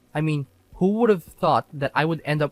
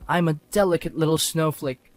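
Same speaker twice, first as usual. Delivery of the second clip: hammed-up crybaby, slightly raised; mock wailing; 3 semitones higher than usual. Husband mimicking his wife's self-pity, mock wail. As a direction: mimic a helpless victim, mockingly. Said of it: "sobbing and wailing".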